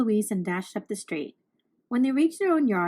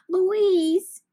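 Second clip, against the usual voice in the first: relieved cry; 8 semitones higher, 5 dB louder than usual. A narrator's reading. Relieved to see sister.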